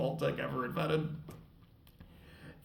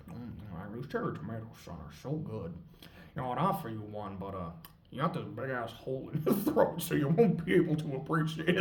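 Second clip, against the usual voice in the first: smug ghoul voice; 4 semitones lower than usual. Retold or imitated. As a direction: taunt the dying man, low and pleased. Ghoul taunts dying man.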